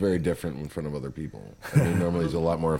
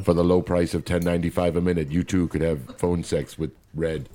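ad announcer. Pretend. Mock phone-sex ad pitch.

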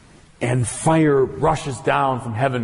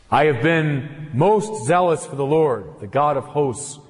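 a touch of proud, hurt prophet; lightly voiced Elijah, slowing on I alone am left; self-assertion and wounded pride. Elijah answering God with wounded pride. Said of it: "tones of self-assertion and wounded pride".

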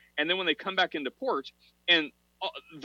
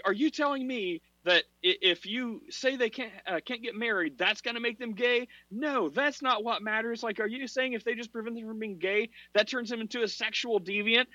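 high-pitched, incredulous quoted challenge; mock indignant woman; 9 semitones higher than usual. Quoting an atheist woman arguing about celibacy, high mock indignation. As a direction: imitate her objecting, pitched well up. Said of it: "so she's like".

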